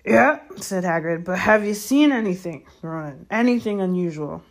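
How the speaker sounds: lightly voiced big-hearted gamekeeper, loud and pressing; Hagrid. Gamekeeper questions the centaur about anything unusual, pressing.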